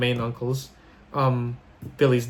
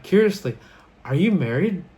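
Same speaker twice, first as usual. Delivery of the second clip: curious; 5 semitones higher than usual. Retold or imitated. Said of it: "Oh, curiously".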